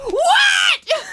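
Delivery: high cracking yell, laughing at it. Retold or imitated. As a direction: redo the cracked shout for laughs. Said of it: "with the biggest voice crack".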